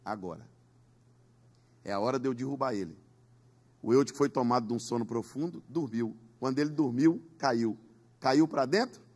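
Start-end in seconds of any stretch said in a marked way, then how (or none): 0.0-3.0 the enemy whispering. Acted. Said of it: "o inimigo disse".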